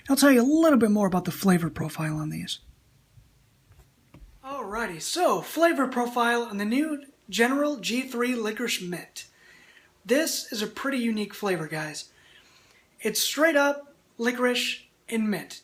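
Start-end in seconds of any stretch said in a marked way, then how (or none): 4.4-15.6 talking with snus in the lip; words around a pouch under the lip; lip full of dip. Real, not acted. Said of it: "pop one of these in".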